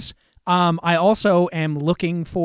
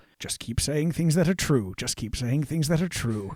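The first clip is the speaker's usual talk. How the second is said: soft mumble under the breath, barely audible; 3 semitones lower, 7 dB quieter than usual. Having walked far enough from the one at the gate, mumbling under breath. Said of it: "get far enough away to mumble".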